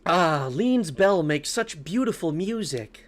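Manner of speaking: slow, dreamy put-on mother voice; lightly feminine, drawn-out mom voice. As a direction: play the game's mom, slowly savouring it. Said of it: "Can I do a mom voice?".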